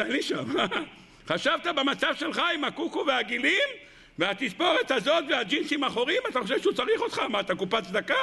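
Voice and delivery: scornful, laughing taunt; mock him with a sneering laugh; the body's mocking voice. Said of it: "הגיע הגוף שלו ואמר לו".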